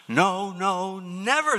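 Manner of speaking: high, rising No, no, never; loud insistent refusal; emphatic triple no. Acted. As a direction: slam the door with each no. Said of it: "their answer comes back even more emphatic".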